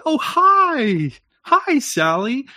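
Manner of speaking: high, slow sung hello; singsong greeting. Retold or imitated. Woman greeting Sally, high sung hello. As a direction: lilt it way up like a cheery woman. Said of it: "they'll pitch themselves and they'll sing along".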